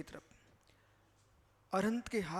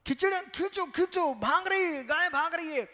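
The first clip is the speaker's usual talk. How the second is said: higher-pitched mock alarm; acted urgent cry; 6 semitones higher, 4 dB louder than usual. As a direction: play at calling out as the cow bolts. Acts out cow pulling away.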